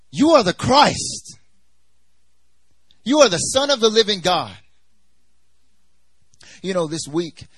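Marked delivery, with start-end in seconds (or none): 0.1-4.6 bold proclamation. Acted. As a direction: jump in and proclaim it with full conviction. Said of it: "jumps up and he says".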